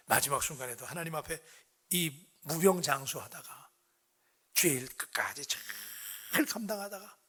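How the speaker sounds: 낮고 차분하게 축복하는 목회자 말투; 소리를 낮추고 천천히 끊어 축복하듯. Real, not acted. 축복을 비는 말. (나직하고 경건한 축복의 말투)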